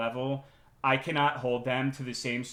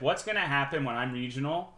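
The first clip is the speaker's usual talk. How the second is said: normal talking voice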